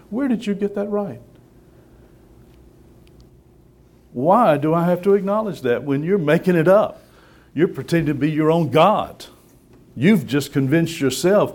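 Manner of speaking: loud, high, fierce preaching; fiery rebuke. Real, not acted. Preacher confronting the congregation about sin, angry and loud. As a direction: thunder it at the sinners.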